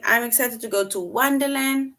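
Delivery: a touch brighter, eager delivery; excited. Shown as a demonstration. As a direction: sound like you can't wait. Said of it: "the person now saying".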